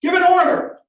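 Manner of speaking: high, loud, rising desperate yell; brother shouting. Retold or imitated. Brother yells at Joshua to give an order, high and loud. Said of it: "his brother is shouting at him".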